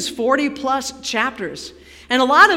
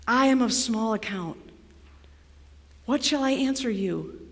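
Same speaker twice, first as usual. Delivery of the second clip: softer, measured reading as Job; humbled scripture reading; 3 semitones lower, 8 dB quieter than usual. A narrator's reading. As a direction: read it as a quiet surrender. Reads Job's humbled answer.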